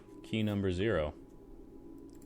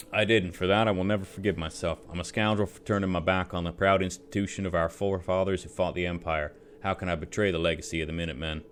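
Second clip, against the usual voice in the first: put-on drunk soldier voice; 3 dB louder, faster than usual. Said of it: "rummy drunk soldier voice".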